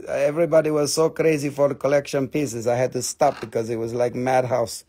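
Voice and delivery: lightly hammed foreign accent with broken English; put-on foreign accent. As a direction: play a foreign dealer with a thick-tongued accent. Slips into foreign-English seller act.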